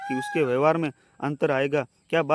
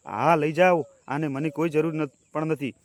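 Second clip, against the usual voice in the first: furious; slower than usual. Acted. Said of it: "ગુસ્સામાં પાગલ".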